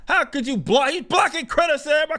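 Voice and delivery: high whiny mocking voice; mocking troll whine; whiny mock critic. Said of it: "And then it's like".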